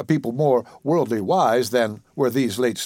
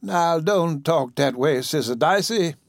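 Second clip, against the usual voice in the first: higher, slow invalid voice; lightly voiced ailing woman, gently chiding; sick woman; 4 semitones higher, slower than usual. Patient hushing her caretaker, weakly chiding. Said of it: "said the sick woman".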